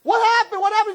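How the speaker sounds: mock alarmed neighbours; calling out. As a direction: yell it as you run outside.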